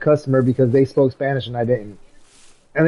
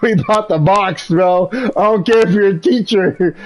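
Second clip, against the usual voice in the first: raised, heated mock retort; retold angry retort; 4 semitones higher than usual. To the coach who doubts him, a mild heated retort. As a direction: snap back at the coach, pitched up. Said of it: "I was so mad".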